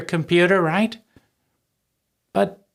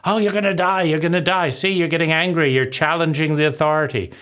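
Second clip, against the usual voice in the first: taunting inner abuser; faster than usual. Retold or imitated. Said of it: "Flailing around".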